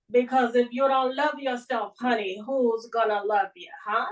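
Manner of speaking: lightly put-on New York accent; sassy New York accent, lightly done. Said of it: "the worst New York accent I've ever heard".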